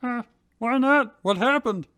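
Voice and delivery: put-on high, lightly curious young man; curious Drew. Drew asking Ash why May isn't his friend, curious. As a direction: ask like you're itching to know. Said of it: "Drew asked curiously".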